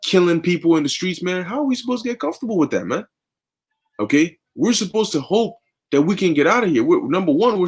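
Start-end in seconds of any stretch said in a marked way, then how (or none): 1.4-3.1 outraged question. Real, not acted. Preacher's outraged rhetorical question.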